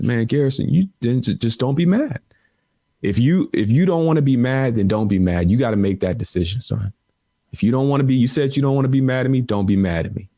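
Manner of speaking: imitating dad. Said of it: "He says".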